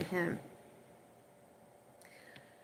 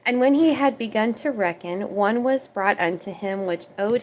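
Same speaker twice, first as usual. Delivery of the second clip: scripture reading. Acted. Preacher reading the parable aloud to viewers, measured.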